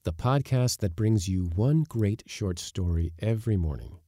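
upbeat sponsor read; lively podcast intro with lifted key phrases; podcast host read. Acted. Host thanks a sponsor before the story, upbeat ad read.

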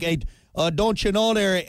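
mock Canadian lilt; lightly hammed-up Canadian accent. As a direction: imitate a folksy Canadian accent. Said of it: "You'd like".

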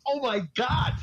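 high, exasperated oh my God; mock disbelief. Host reacting to the spokeswoman with high mock disbelief. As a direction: throw up your hands at it, pitched high. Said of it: "I'm going".

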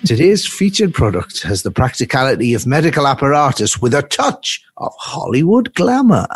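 upbeat infomercial pitch; hard sell ad. Acted. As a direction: sell it like a shopping channel host. Spoof sponsor ad read.

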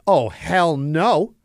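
delivery drivers asked to clean, high mock outrage; indignant drivers. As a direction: drag out "hell no" in disbelief. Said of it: "everybody was like".

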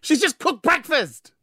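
slow exasperated. Real, not acted. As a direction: stretch it out in disbelief. Exasperated repeat.

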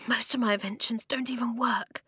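hushed, defeated whisper; despairing whisper. Acted. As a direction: whisper in self-doubt. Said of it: "he whispered".

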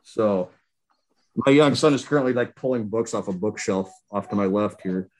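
muffled behind a mask; through a face mask. Real, not acted. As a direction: talk through a cloth mask. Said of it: "I'm wearing a mask right now".

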